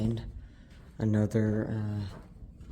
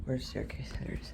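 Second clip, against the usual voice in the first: whispering; 6 dB quieter, faster than usual. Real, not acted. Quiet exploring whisper.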